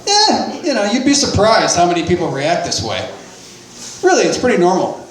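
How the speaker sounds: lightly voiced reassuring cop; favorite-uncle cop. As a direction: play it like a kindly uncle, unbothered. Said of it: "talking to me like he's my favorite uncle".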